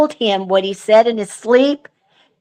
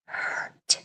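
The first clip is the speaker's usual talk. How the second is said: spirit box voice; 15 dB quieter than usual. Retold or imitated. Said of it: "you hear this man say".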